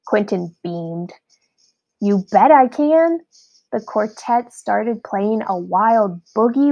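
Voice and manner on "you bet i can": eager boast. A narrator's reading. Quentin beams proudly.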